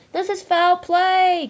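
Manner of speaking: high, loud, slow protest; crying out. Acted. Bowler crying out while swept down the river. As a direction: drag out the outrage. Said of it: "cried Bowler".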